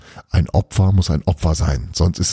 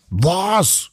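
shocked cry; 12 semitones higher than usual. A narrator's reading. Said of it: "schrien sie".

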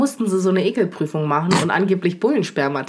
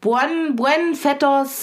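slow, higher mock Spanish; 5 semitones higher, much slower than usual. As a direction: ham up a Spanish phrase.

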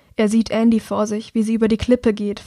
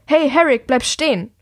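calling out; 4 semitones higher than usual. Acted. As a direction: shout to make him stop running. Brother calls after fleeing Herrick.

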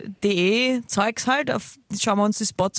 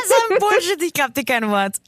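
laughing disbelief; 11 semitones higher, 4 dB louder than usual. Real, not acted. Disbelief at friend's story.

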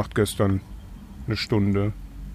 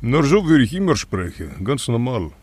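thick, matter-of-fact Russian accent; Russian-accented German. Shown as a demonstration. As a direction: speak German like a Russian film villain. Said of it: "wie sprichst du mit russischem Akzent?".

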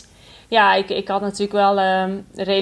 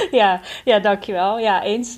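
real happy laugh into the words; audibly delighted; 2 semitones higher, slower than usual. Real, not acted. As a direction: say thanks with a pleased little laugh. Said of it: "ik hoor het al aan je, aan je stem en je eerste reactie". (oprecht blij, lachend)

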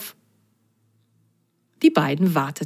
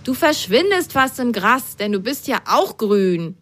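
lightly voiced little sock; 6 semitones higher than usual. Character teases friend.

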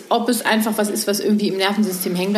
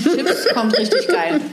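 laughing; 7 semitones higher, slower than usual. Real, not acted. Joking about chips on podcast.

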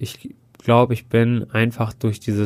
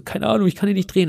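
put-on whiny child self; 8 semitones higher, faster than usual. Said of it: "Ich so".

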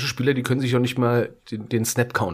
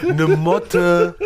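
laughing hard; 10 semitones higher, slower than usual. Real, not acted. Laughing at friend's cramp.

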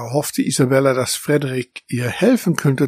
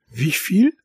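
slow, much higher, drawn-out disbelief; amazed whisper; 8 semitones higher, much slower than usual. Acted. Cat hears the mouse count, hushed amazement. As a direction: stretch out fünfundvierzig in hushed amazement. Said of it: "flüsterte sie".

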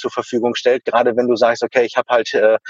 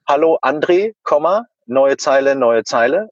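dictating. Shown as a demonstration. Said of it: "komme mir auch immer ein bisschen doof vor".

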